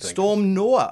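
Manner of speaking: NOAH in a light Geordie accent. Real, not acted. Host names the storm to his co-host, slight Geordie accent. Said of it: "said Noah with a Geordie accent".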